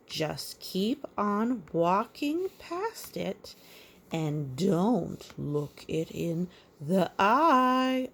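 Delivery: slow, sing-song picture-book reading; measured storybook rhyme; reading to a child. A narrator's reading. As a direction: read the rhyme gently to a little one. Reads rhyme.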